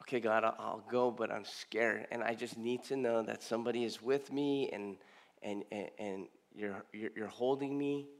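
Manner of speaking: soft, halting, faltering prayer; hushed prayer. Retold or imitated. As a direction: pray quietly as if scared and alone. Recalled tearful prayer to God.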